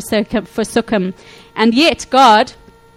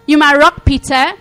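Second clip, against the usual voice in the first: excited; 4 semitones higher, 4 dB louder than usual. Retold or imitated. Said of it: "he's so excited about".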